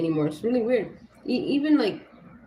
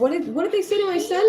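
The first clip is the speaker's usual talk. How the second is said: angry demand; 9 semitones higher than usual. Retold or imitated. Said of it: "And I said".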